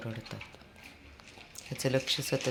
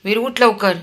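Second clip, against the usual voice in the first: loud, higher call to hurry; 7 semitones higher, 11 dB louder than usual. Real, not acted. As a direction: get him out of bed. Calling child to get up.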